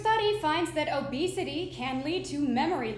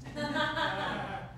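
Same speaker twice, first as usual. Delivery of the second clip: giggle; 4 dB quieter than usual. Acted. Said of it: "a drummer said".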